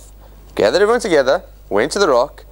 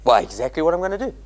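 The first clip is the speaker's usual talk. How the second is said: smug retort; 2 semitones higher, 4 dB quieter, much faster than usual. Shown as a demonstration. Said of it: "What, do you think".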